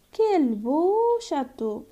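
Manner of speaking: slow, marvelling "quel beau château"; amazed exclamation. Shown as a demonstration. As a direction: admire the castle aloud, drawing it out. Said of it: "Cette phrase exprime l'étonnement".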